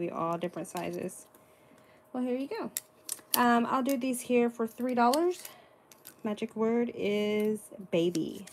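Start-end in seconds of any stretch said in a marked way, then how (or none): 6.2-8.4 loud, slow announcement. Real, not acted. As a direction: call it out slowly and clearly. Announcing the sale's magic word.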